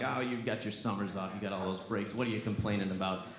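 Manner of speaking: low, soft dismissive complaint; dismissive dad. Retold or imitated. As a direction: wave it away in a low grumble.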